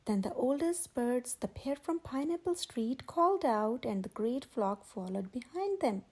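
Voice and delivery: steady, clear storybook reading; gentle read-aloud narrator; story narration. A narrator's reading. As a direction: read it like a picture book to kids.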